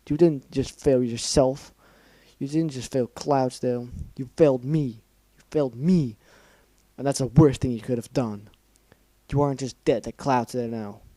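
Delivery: angry scolding. Acted. Rainbow Dash berating Scootaloo.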